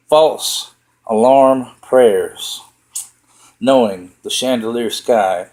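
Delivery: measured recital, phrase by phrase; deliberate spoken-verse delivery; poetry reading. Acted. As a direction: read your poem out to listeners, pausing between images. Reads own poem aloud.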